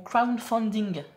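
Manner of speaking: English accent. Shown as a demonstration. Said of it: "Encore une fois, mon accent anglais".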